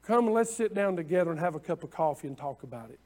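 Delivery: quick, easy, chatty retelling; casual paraphrase. Shown as a demonstration. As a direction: say it like an invitation over coffee. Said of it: "I'm gonna say it anyway".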